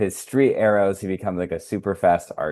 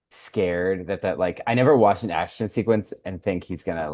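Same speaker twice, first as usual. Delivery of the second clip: ordinary talk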